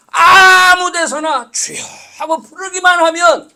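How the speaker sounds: loud, slow crying-out preacher; impassioned pulpit shout; preaching shout. Acted. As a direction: cry it out to the whole church. Crying out in sermon.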